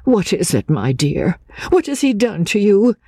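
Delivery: a lightly voiced older woman, high and soothing; motherly comfort. A narrator's reading. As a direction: fuss over the frightened girl. Mrs Clements comforts Anne.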